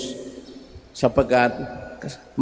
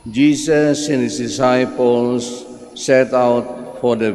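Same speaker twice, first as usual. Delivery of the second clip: solemn proclaiming voice for scripture; gospel reading. Acted. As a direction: read it out like Mass.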